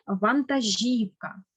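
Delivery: вантажівка said slowly, stressed on ЖІВ. Shown as a demonstration. Teacher models вантажівка slowly, stressed on І. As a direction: put the beat on the next-to-last syllable of вантажівка. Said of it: "Наголос на «і»".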